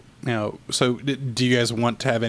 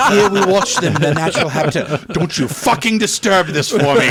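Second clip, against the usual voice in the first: hushed, awed wildlife narrator; nature documentary; 4 semitones higher, 5 dB louder than usual. Retold or imitated. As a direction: talk like a zoologist watching apes. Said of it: "every dude all of a sudden becomes Jane Goodall".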